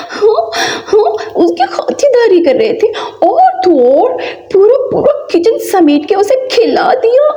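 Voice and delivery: high, teary comic whine; mock crying lament. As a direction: whine like your feast is ruined. Mother laments the fed beggar. (मज़ाकिया रोता हुआ विलाप)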